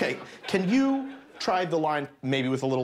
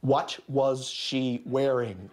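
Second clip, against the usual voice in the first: slow question; much slower than usual. Shown as a demonstration. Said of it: "Question mark".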